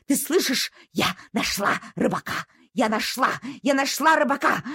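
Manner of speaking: eager barking voice of a dog; excited dog. Acted. Dog waking the doctor, calling out excitedly. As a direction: shout it out, thrilled at the find.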